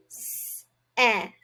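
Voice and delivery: S-et, sound by sound; sounding out set. Shown as a demonstration. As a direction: stretch "set" into s and et. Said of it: "let's pound out set".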